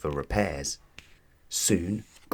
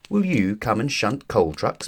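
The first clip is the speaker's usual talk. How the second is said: peeping; 3 semitones higher than usual. Acted. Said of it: "peeped Thomas".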